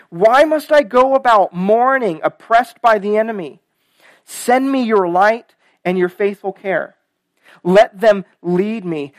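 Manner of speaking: impassioned psalm reading, settling at the close; emphatic, measured pulpit reading; scripture reading. Acted. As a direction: read the prayer out with rising fervor. Reads the psalm aloud.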